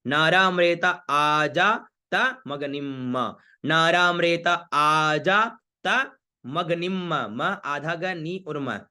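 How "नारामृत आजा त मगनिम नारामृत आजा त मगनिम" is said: slow chant ending मगनिम on a held "m"; mantra recitation. Shown as a demonstration. Teacher reciting the mantra line, slow, final म sounded. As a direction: recite नारामृत आजा त मगनिम with long vowels. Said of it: "उसका विशेष उच्चारण होता है".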